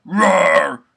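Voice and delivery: a quick roaring growl; demo roar. Shown as a demonstration. Teaching a vocal roar, rough growled roar. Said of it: "just roar".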